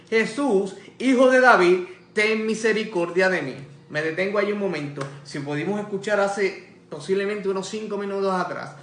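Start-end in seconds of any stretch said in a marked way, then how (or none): 0.1-3.5 calling out. Retold or imitated. Blind beggar calls to passing Jesus, calling out. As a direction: call out loudly to be heard. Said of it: "Entonces dio voces diciendo".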